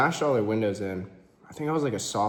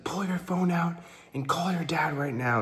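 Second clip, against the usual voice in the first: a hint of a bullying boyfriend, pitched up; boyfriend's order; 6 semitones higher than usual. Boyfriend forcing her to call her dad, lightly mocked command. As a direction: bark it lightly as the abuser.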